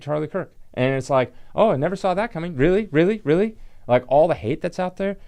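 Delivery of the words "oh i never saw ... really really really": higher-pitched, incredulous questioning; pointed, exasperated fake astonishment; mock disbelief. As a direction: feign surprise, pressing each "really". Mocks supposed surprise at violence.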